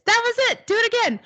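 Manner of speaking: high, thrilled encouragement; excited praise. Real, not acted. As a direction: cheer the student's breakthrough. Teacher cheers student's success.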